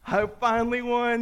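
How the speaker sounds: high-pitched elated cry; ecstatic. Acted. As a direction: act out overjoyed relief at winning. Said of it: "He's ecstatic".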